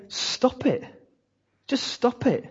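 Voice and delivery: breathy, soft, high stop it; hushed rebuke. Retold or imitated. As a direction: plead quietly, almost whispering. Paul rebukes quarrelling church.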